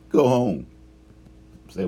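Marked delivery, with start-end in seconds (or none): 0.1-0.6 loud, higher dismissal; retold angry order. Upset dude sending the new worker away, angry order. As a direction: replay a sharp order to leave.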